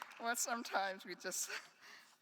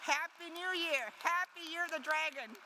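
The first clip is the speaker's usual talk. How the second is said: festive greeting; 13 semitones higher, 6 dB louder than usual. Real, not acted.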